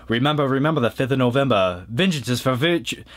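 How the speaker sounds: lightly voiced quote of a masked avenger. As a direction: recite it in light imitation of the film's hero. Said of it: "V, played by Hugo Weaving".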